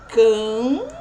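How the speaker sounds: CAMPO with a long, loud nasal CAM, then a break before PO; nasal digraph. Shown as a demonstration. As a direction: split CAMPO, stretching the nasal vowel. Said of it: "Tem apenas um som". (CAMPO com o som nasal alongado, sílaba por sílaba)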